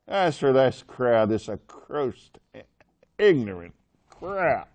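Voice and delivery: Pharisees snarling about ignorant worshippers; mock snarl. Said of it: "you can hear them snarling".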